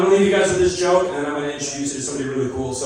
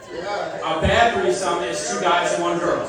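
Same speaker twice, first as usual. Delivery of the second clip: slow, deliberate statement; slower than usual. Shown as a demonstration. Comic to crowd, slow and deliberate. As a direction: spell it out slowly like a rule. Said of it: "This is universal law".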